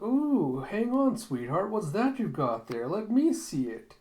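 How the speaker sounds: high, swooping, intrigued coo; cooing madam. Acted. Madam spots what Zapan carries, high intrigued coo. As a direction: coo loudly with sudden curiosity. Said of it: "And she's like".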